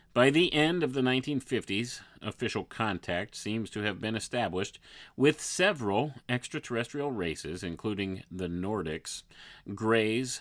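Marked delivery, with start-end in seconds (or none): none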